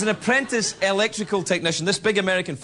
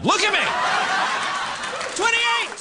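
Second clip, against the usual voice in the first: mock insistence. Real, not acted. Host joking about his age to the crowd, high. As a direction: insist with a squeal.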